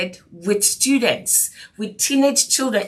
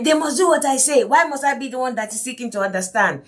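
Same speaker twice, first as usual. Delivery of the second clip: authoritative parent; 3 semitones higher, faster than usual. Retold or imitated. Strict parent refuses to bend to the children, mock-bossy. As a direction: imitate an indignant parent who demands obedience. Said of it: "that kind of authoritative attitude".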